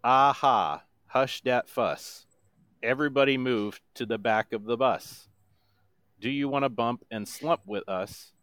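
monotone voice. Shown as a demonstration. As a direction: speak the song, don't sing it. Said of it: "in my best monotone voice".

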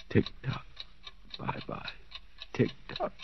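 breathless whisper; delirious whispered tick-tock. Acted. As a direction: murmur to the clock, half gone. Delirious murmuring to clock.

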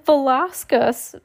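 high, drawn-out little cry; mild shriek. A narrator's reading. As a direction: call it out as a small, high squeal. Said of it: "Sunny shrieked".

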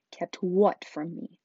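loud, drawn-out eager question; eager boy. A narrator's reading. Boy asks what was hidden, eager. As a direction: press for the answer eagerly. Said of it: "Harry eagerly".

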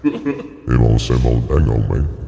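slow attempt at a Cajun accent. Asked to do Cajun, a slow Cajun attempt. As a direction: try a drawn-out Cajun accent. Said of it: "That's Cajun".

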